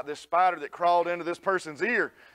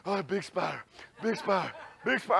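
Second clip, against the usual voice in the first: panting fright; 4 dB quieter than usual. Retold or imitated. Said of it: "I'm like".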